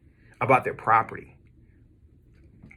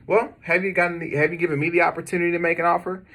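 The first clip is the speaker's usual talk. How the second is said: eager caller; 5 semitones higher, faster than usual. Pretend. Caller pushing back.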